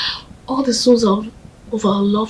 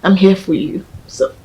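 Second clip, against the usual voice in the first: softer, whispered reassurance; whispered comfort; 4 dB quieter than usual. Acted. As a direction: coax her gently to eat.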